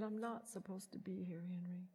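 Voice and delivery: whispered, breathless confession. Retold or imitated. Wife whispering to her husband in the hospital tunnel. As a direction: whisper it so only he hears.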